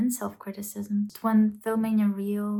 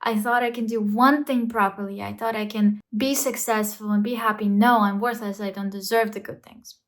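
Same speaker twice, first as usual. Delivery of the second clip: self-blaming rant; 3 dB louder than usual. Acted. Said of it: "Negative self-talk kicks in".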